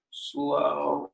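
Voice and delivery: long, stretched "slow"; drawn-out. Shown as a demonstration. Instructor cueing a long slow move, drawn out. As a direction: hold the vowel like a long exhale. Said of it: "So can you draw it out?".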